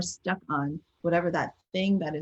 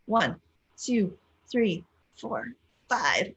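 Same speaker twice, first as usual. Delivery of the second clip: counting along; 4 semitones higher, much slower than usual. Shown as a demonstration. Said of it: "Here we go, tense".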